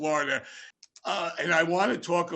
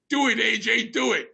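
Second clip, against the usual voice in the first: raised, higher egging-on shout; friends yelling; 6 semitones higher, 4 dB louder than usual. Retold or imitated. Bandmates yelling at AJ to do it, loud egging on. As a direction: goad him on, loud and high. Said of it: "they're all yelling at me".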